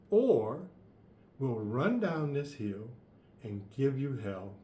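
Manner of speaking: defiant battle cry. Acted. Villagers choose to fight.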